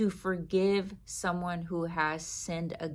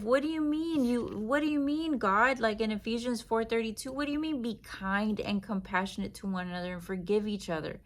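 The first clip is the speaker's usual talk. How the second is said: hurt believer protesting; 3 semitones higher than usual. Acted. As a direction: plead with God like someone deeply wronged. Voicing the hurt believer to God.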